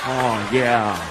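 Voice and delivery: mock aroused husband. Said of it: "their husbands are going".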